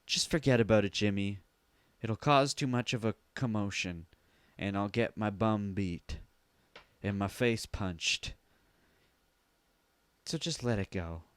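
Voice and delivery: low, soft resigned mother; lightly voiced mother, low and soft; Mother's hushed plea. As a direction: hush him down like a worn-out mom. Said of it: "Then Mother says".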